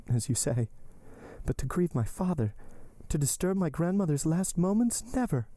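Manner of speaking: high-pitched heroine, earnest plea; Valentine, pleading. Acted. Valentine begging Maximilian to understand, earnest.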